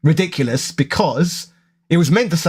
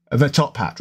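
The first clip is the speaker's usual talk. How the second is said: Cockney th; 3 semitones lower than usual. Shown as a demonstration. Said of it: "if I talk more freely".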